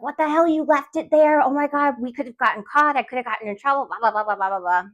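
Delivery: high-pitched mock scolding, falling away into blahs; retold yelling. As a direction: rattle off a mild imitation of a telling-off. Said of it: "like, yelled at him".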